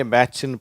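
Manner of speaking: "பேட்ச்னு" with a plain ch; "பேட்ச்னு" using only the ch sound; mistaken plain CH. Shown as a demonstration. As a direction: show the misreading "பேட்ச்னு", no sh in it. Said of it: "அந்த இச்சு உச்சரிப்போட".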